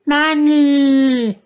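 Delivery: high, loud shout. A narrator's reading. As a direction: call it out loud. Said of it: "shouted George".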